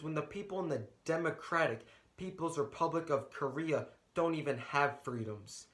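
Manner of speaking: measured, rhythmic spoken-word delivery with building intensity; spoken-word poem, rising to a passionate close; slam poem performance. Acted. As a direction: perform it like a slam poet on stage. Student performs his slam poem.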